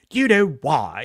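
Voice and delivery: low posh English, lightly hammed up; melodramatic posh English. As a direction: curl the syllables in posh English. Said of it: "so melodramatically".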